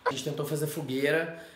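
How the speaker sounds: hushed nervous whisper to camera; nervous night vlog whisper. Real, not acted. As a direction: whisper it so nobody outside hears. Whispering at night in dark house.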